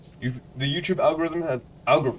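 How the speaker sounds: stumbling over words. Greeting viewers at the start of a video, the speaker keeps stuttering. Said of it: "I'm stuttering a lot today".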